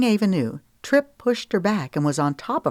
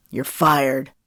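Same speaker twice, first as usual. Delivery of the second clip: mild thundering; 2 semitones lower, 3 dB louder than usual. Acted. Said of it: "Cash thundered".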